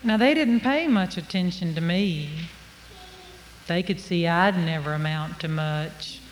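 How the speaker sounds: drawled, unhurried tale-telling; folksy story narration. Acted. Storyteller to audience about being overlooked, folksy narration. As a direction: spin it like a country yarn.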